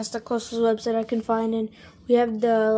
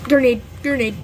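urgent call-out, a bit louder; grenade warning yell; 4 dB louder than usual. Real, not acted. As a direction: warn your team fast. Warning call in a shooter game.

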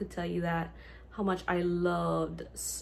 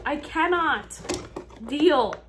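loud, high mock wail; hammed-up tearful outcry; retold crying; 8 semitones higher, 8 dB louder, slower than usual. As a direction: wail it in exaggerated overwhelm. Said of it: "I cried. I was like".

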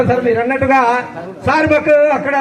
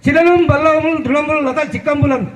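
poem recitation. Acted. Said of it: "ఒక పద్యం చెప్పాలనుకుంటున్నాను". (నెమ్మదిగా పద్య పఠనం)

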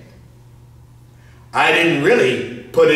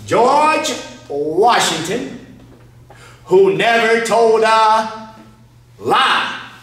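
mock solemn; 4 semitones higher, much slower than usual. Setting up a joke.

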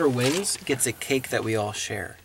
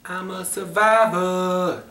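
dramatic announcer; 6 semitones higher, 3 dB louder, much slower than usual. Acted. Announcing the movie title.

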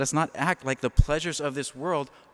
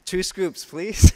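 playful joke order; 6 semitones higher, 8 dB louder, slower than usual. Acted. Extends the joke.

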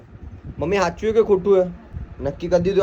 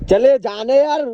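higher, louder, fed-up brush-off; exasperated dismissal; 9 semitones higher, 5 dB louder, slower than usual. Real, not acted. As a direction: send them away in exasperation. Telling partner to go away.

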